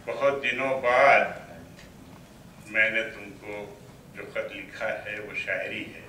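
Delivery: measured verse with long pauses; poetry recital. Acted. Poet opening his poem to a mushaira audience, poetry recital. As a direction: recite phrase by phrase, letting each one hang.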